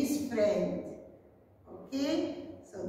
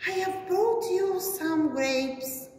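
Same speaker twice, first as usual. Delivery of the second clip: Jen's line; 6 semitones higher than usual. Acted. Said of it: "said Jen".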